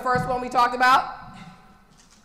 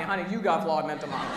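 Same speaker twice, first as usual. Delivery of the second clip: fast, lower mock jab at a spouse with a laugh; mock accusation, laughing; 6 semitones lower, faster than usual. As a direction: tease the partner, half laughing. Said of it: "say to your honey".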